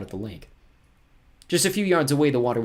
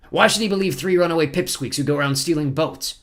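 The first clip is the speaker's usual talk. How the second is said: higher, louder scornful villain; scornful villain captain; 7 semitones higher, 6 dB louder than usual. Acted. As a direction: sneer at the children's story.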